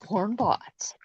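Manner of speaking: hushed mock-ominous whisper. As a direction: breathe it like a secret.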